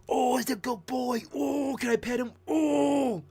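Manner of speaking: put-on high, squealing baby talk over a good boy; gushing at a dog. Streamer imitating himself spotting a dog, high gushing squeal. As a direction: coo at the dog like you can't contain yourself.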